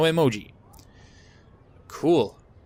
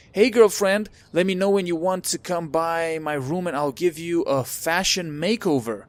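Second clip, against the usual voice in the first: gushing classmate; 5 semitones higher than usual. Acted. Reading Courtney's gushing text.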